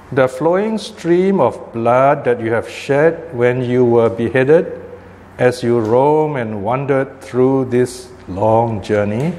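slow sutra recitation with long pauses; scripture reading. Acted. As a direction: pose the Buddha's question slowly, drawing out the phrases. Reads scripture aloud to class.

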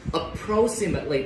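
"approximately" with "-mate-" said as a short "muht", not "may"; reduced "mate" syllable. Shown as a demonstration. Teacher correcting students' "may", "approximately" with a short "muht" syllable. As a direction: say "approximately" with a weak schwa in "-mately". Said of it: "Không đọc là may các bạn ha".

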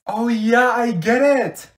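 loud, high fake enthusiasm; exaggerated eager realization; mock understanding. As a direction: pretend it suddenly makes sense. Feigned understanding.

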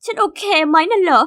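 crying voice echoing the question mockingly; tearful scoff. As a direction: still crying, turning it into a sneer. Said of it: "รีบปัดน้ำตาแล้วก็ยิ้มร้ายให้".

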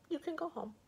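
high-pitched ogre's dismissal. Acted. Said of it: "said the ogre".

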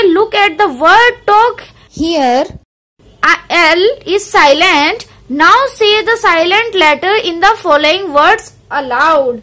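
very slow, deliberate reading of the book line; careful teacher reading from the textbook; slow textbook read-aloud. Acted. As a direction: read each word out slowly for the class.

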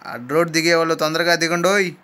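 a mild calling-out to passengers; conductor's call. Acted. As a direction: hail the stop for those getting down. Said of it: "conductor కేక".

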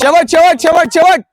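high, repeated finish-line call; urgent high coaching cry; final-push urging. Real, not acted. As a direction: drive them through the last stretch.

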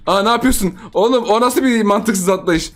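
high, loud startled disbelief; surprised outcry. Real, not acted. Streamer reacting to opponent's silly jump, surprised. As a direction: call out the absurd jump.

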